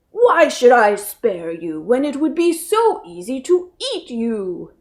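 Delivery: a hint of a smug lion; lightly voiced lion, toying with prey. A narrator's reading. Lion questioning the mouse, lightly voiced.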